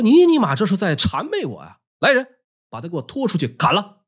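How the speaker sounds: mock-indignant emperor's outburst; retold sudden anger. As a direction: snap into a lightly acted tyrant's anger. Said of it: "福生突然变脸".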